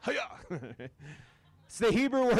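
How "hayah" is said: quiet repeat. Shown as a demonstration. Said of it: "Say "hayah".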